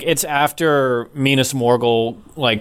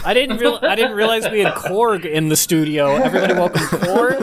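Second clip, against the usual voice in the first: excited; 7 semitones higher than usual. Real, not acted. Host voice, joking introduction.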